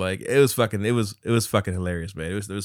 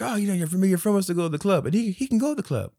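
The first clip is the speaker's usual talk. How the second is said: driver impression; 8 semitones higher, faster than usual. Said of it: "He's like".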